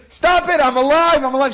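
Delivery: high, insistent retold outcry; acted protest. Rav to mourners who think him a ghost, acted protest. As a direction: exclaim it in mock exasperation.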